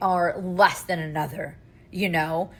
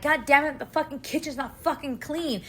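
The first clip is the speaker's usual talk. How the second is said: higher-pitched imitated angry outburst; retold lashing out; 5 semitones higher than usual. Mom retelling her kitchen blowup, mock lashing out. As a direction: replay your outburst, pitched up. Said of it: "lash out".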